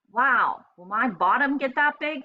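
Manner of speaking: a hint of a giggling little hippo; giggled playfully. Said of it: "she giggled playfully".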